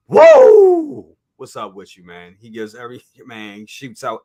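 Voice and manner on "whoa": loud high surprised whoa. Real, not acted. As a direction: blurt it out in shock. Sudden surprised outburst.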